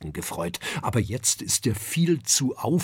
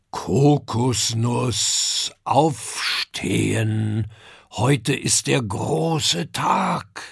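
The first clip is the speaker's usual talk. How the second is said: slow, drawn-out wake-up call to his son; papa calling his son to get up; father calling out; 4 dB louder, much slower than usual. Acted. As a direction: stretch the words out as a father rousing his boy.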